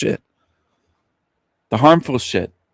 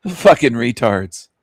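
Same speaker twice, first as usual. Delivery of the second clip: laughing; slower than usual. Real, not acted. Laughing at the people he mocks.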